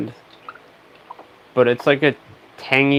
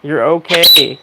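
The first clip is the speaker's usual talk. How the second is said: loud firm scolding; 4 semitones higher, 7 dB louder than usual. Real, not acted. Scolding the screaming bird.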